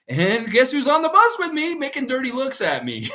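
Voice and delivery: high, loud, breaking into laughter; real laughing. Real, not acted. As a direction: tell the punchline while cracking up. Cracking up at own story.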